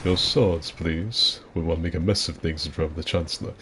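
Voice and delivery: lightly voiced courteous villain; a hint of a stately screen villain, hushed; understated grand-actor impression; Christopher Lee. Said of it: "I can do a really good Christopher Lee".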